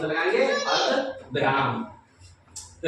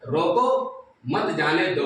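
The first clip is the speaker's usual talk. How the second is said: रोको set apart slowly, then मत जाने दो together; pause after रोको; slower than usual. Shown as a demonstration. Teacher shows class the written comma, pause after रोको. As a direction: break after रोको, slow reading. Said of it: "यहाँ पे लिखा है".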